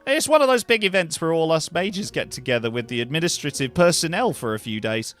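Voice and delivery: lightly voiced Australian mage; chatty Australian character voice; Australian-accented game character. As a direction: play an overworked Aussie potion-brewer.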